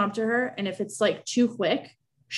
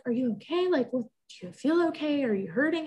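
higher, gently questioning voice; imitated concerned mother; 7 semitones higher than usual. Mom asking her crying daughter, in imitated concern. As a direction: check on someone upset, pitched up.

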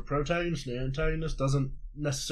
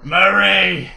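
woman's voice; 3 semitones higher, 10 dB louder than usual. Pretend. Playing a mom character.

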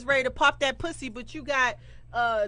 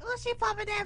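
mocking commenter; 9 semitones higher, 7 dB quieter than usual. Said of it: "they gonna comment like".

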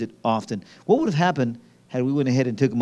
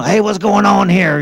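lightly voiced colonel, louder and higher; colonel interrupting; 5 semitones higher, 6 dB louder than usual. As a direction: imitate an officer demanding an explanation. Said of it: "we had the colonel come out".

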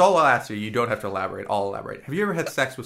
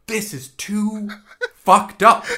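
laughing disbelief; 8 semitones higher, 6 dB louder, slower than usual. Retold or imitated. Retold reaction, laughing.

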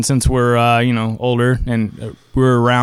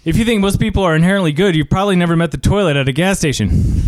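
rapid-fire patter, pitched up; fast talker; 4 semitones higher, faster than usual. Acted. Player trying a fast talker card, rapid-fire. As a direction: race through it like a fast-talking pitchman. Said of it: "Fast talker".

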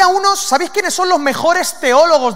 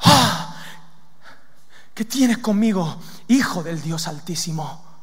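gasped cry, then slow falling plea; slow demon plea, sinking lower and softer; drawn-out submissive demon voice; prostrate demon; 4 semitones lower, 4 dB quieter, slower than usual. Acted. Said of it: "se postra".

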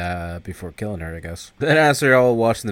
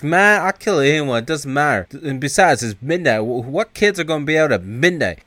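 higher-pitched acted arguing; argumentative bravado; 5 semitones higher, 3 dB louder than usual. O-Dog arguing with Kane in the car, defiant. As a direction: brush off his objection, pitched up.

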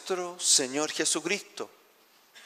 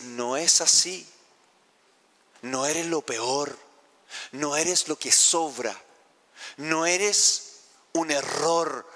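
comforting voice of the Lord. Acted. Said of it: "el Señor empieza a consolarnos y decir".

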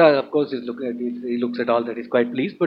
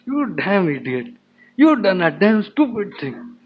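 mock scolding, building higher and drawn out; retold shouting; 5 semitones higher than usual. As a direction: imitate an angry telling-off, stretching the insults. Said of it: "And all he shouts at him".

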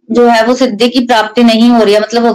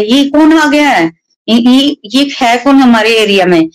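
indignant challenge; 3 semitones higher than usual. Retold or imitated. Robber to intruders in his area, indignant challenge. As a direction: act out a robber demanding to know who intrudes.

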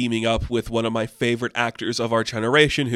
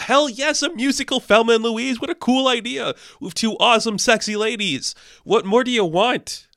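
much higher, gushing with delight; excited gushing; 10 semitones higher, 3 dB louder than usual. Real, not acted. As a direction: squeal it out like the best news ever. Gushing over musical Thelma and Louise.

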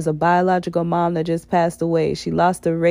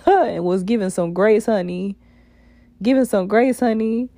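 hoarse raspy sass; rough-voiced, sassy call-out. Real, not acted. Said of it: "excuse my raspy voice".

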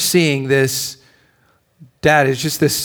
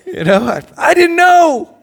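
sheepish laugh; 7 dB louder than usual. Real, not acted.

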